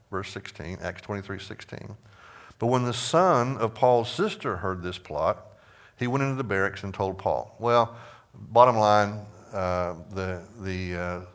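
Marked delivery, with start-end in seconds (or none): 2.6-7.5 scripture reading. Acted. Teacher resuming the verse about Paul's nephew, deliberate scripture reading. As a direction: read it out, weighting the key words.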